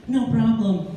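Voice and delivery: a light airy mock of his fiancée; lightly imitated carefree fiancée; wife's breezy reply. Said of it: "That's how she sounds".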